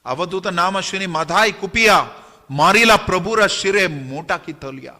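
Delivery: measured, lilting verse delivery; scripture verse recitation. A narrator's reading. (लय में पद्य पाठ)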